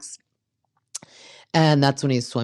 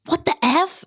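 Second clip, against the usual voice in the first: much higher, squealing disbelief; shocked exclamation. Retold or imitated. Kristen turning to find Luke kneeling, shocked squeal. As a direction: gasp it out as the proposal hits. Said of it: "she's like".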